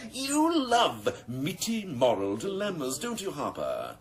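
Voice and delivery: high, slow, laughing taunt; a boss amused by his sergeant's scruples; mocking laugh. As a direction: laugh the words at him.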